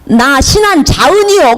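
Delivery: put-on the elder answering in a light Jeolla accent, stress on 신안; mild Jeolla imitation, falling at the end; 전라도 말투로 흉내 내듯이; Jeolla dialect. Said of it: "그분이 뭐라고 하냐면".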